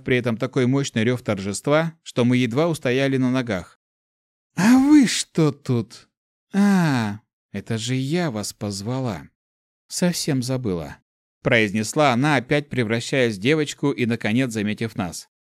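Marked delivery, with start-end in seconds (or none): 4.6-11.0 put-on girl elemental voice.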